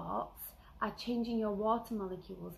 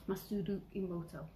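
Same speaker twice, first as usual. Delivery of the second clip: put-on Japanese accent; 3 dB quieter than usual. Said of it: "that was probably not the greatest accent".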